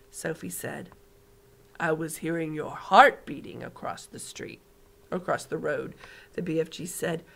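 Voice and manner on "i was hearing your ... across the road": calm, knowing giant; lightly voiced giant. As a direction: giant explaining, understated. BFG voice again.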